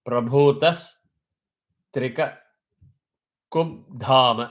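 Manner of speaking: "trikakubdhama" broken up slowly, the b kept soft before dha. Shown as a demonstration. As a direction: spell out "trikakubdhama" piece by piece, soft b. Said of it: "Ba is soft".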